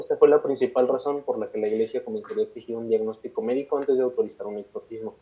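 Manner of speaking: measured read-aloud storytelling; steady podcast narrator reading; scripted documentary narration. A narrator's reading. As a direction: narrate a dark case history from a script. Reads a prepared case account aloud.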